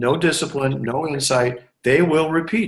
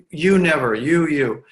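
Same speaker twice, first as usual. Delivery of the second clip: tense accusation. Retold or imitated. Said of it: "you kind of feel the tension".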